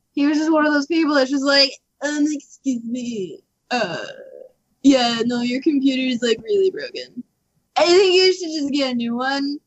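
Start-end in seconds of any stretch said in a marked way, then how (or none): 2.0-9.6 rude repair guy. Retold or imitated. Rude repair guy to customer about a broken computer, mock condescending. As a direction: imitate an obnoxious, hesitant repair clerk. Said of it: "He has a voice that makes you".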